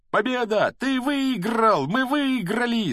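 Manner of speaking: high, loud victory cry; excited yelling. A narrator's reading. Ron slapping Harry's back after the match, yelling. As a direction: yell it out with drawn-out words. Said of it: "завопил Рон".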